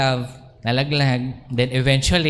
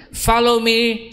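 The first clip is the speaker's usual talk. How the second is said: higher and a bit more urgent "Follow me"; the Lord's command; 5 semitones higher than usual. Retold or imitated. Preacher voicing the Lord calling him, raised and urgent. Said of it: "says the Lord".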